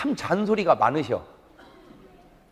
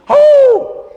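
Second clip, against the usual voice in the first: loud high "어우!" of annoyance; exasperated shout; 13 dB louder, much slower than usual. Acted. Preacher mocking nagging parents with a loud exasperated "어우!". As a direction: blurt a big exasperated groan.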